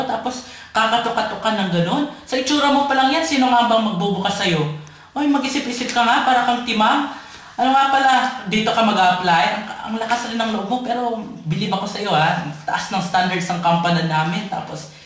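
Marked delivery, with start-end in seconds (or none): 0.0-9.4 mildly exasperated put-down; scolding. Acted. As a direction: tell off a cheeky applicant. Boss scolds applicant for knocking.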